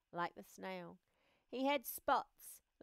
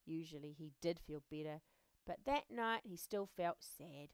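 plain reading voice

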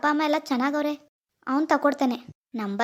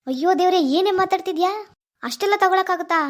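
louder, higher disbelief; aghast protest; 4 semitones higher, 3 dB louder than usual. Acted. Boyfriend hearing girlfriend demand double gifts, aghast. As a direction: exclaim in dismay.

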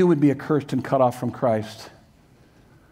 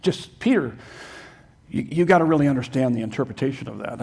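mock reinterpreter; 3 semitones lower, faster than usual. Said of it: "I've heard that kind of nonsense".

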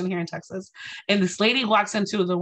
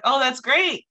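higher, louder retold delight; excited dad; 4 semitones higher, 5 dB louder, slower than usual. Dad hearing daughter's internship news, excited. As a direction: voice a thrilled parent cheering the news. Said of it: "he was so excited".

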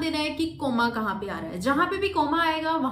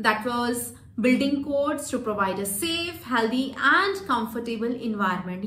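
stretched comma words; much slower than usual. Shown as a demonstration. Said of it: "जहां पे मेरे ये words आए कोमा के साथ".

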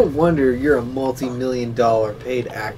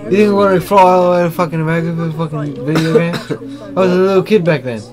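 Daniel Radcliffe voice; 2 semitones higher, 4 dB louder, faster than usual. Pretend. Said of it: "What location did you voice this at, Daniel?".

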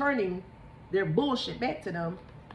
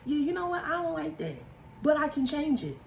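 mock realization; 5 semitones higher than usual. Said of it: "so you can see the errors of your way".

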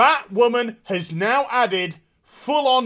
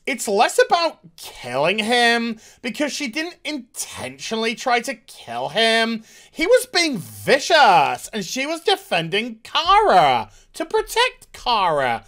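lightly voiced writer quote, a touch higher; quoting the writers' response; 3 semitones higher than usual. Reading the showrunner's reply to the vlog audience, mildly mocking. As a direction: read the writers' answer in a slightly mocking voice. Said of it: "This is the response".

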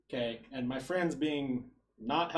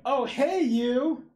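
loud, higher hail across the room; woman shouting to stop him at the door; calling out; 10 semitones higher, 6 dB louder, much slower than usual. Retold or imitated. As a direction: call out to catch someone leaving.

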